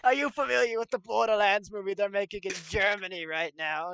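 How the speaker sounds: lightly put-on British accent; a hint of British in the voice. Mikey Myers quizzing Fassbender about Borderlands, lightly British accent. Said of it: "Mikey Myers has a British accent".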